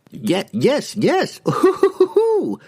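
high, slow nervous laugh; nervous blurt. A narrator's reading. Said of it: "Salah Dalib blurted".

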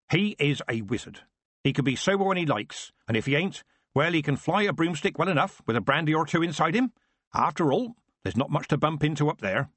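Nanny's voice. Acted. Nanny talks about wizard.

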